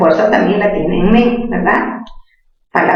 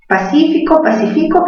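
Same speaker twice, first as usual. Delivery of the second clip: "pacífico" higher, stress on cí; stressed syllables; 6 semitones higher than usual. Shown as a demonstration. Teacher sounds out "pacífico" for students. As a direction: lift and push cí in "pacífico". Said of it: "¿Mayor fuerza dónde?".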